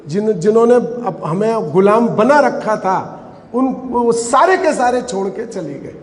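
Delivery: usual speaking voice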